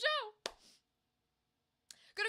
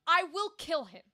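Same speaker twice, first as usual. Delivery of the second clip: louder, firm threat as the brother; mock threat; 2 semitones higher, 7 dB louder than usual. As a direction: lean on the threat, half acted. Threat in retold Laertes warning.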